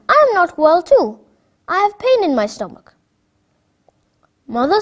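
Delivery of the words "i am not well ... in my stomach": put-on sick child. Sick girl complains.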